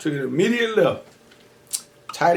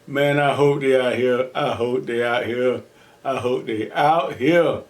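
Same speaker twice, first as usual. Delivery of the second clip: anxious pleading; 3 semitones lower, slower than usual. Retold or imitated. Anxious hope leaving jail.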